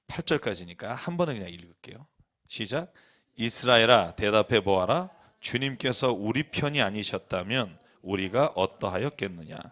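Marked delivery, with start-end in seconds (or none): 3.4-9.6 low, measured psalm reading; scripture reading. Real, not acted. Preacher reads the psalm to congregation, measured low recitation. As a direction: read it out slowly, pitched down.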